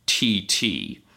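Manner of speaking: straight-faced superhero impression; Batman. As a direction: imitate a superhero delivering a sound effect dead seriously. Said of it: "with a perfect straight Batman face".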